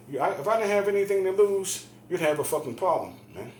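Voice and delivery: loud, high-pitched warning; retold angry threat. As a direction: re-enact warning him off, worked up. Retold threat to big brother.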